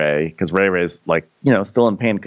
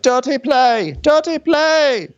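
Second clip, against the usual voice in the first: high, squeaky mock protest; mock crowd cry; slower than usual. Mocking the bystanders with a high, squealy dirty play. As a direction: whine it like offended onlookers.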